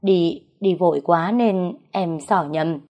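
slow, mildly flustered reply; understated awkward stammer. Acted. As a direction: stumble through an embarrassed excuse. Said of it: "Cậu lúng túng đáp".

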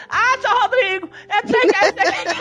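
high whiny cartoon voice; mimicking the secretary in a high cartoon voice; Salsicha-like secretary. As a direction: whine it like the secretary did. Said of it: "ela sempre fica daquele jeito".

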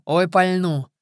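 breathing heavily. A narrator's reading. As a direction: say it through heavy breathing. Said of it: "по-прежнему тяжело дыша".

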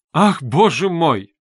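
slow, loud gasp of dismay; dismayed cry. A narrator's reading. Mother crying out at Luzhin's threat, in dismay. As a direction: cry out in alarm. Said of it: "вскрикнула".

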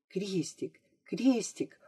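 hushed prompting whisper. A narrator's reading. Classmate secretly prompts girl at blackboard, whispering. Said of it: "услышала она чей-то шёпот".

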